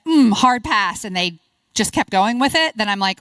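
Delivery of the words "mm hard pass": hard pass. Shown as a demonstration. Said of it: "If I said".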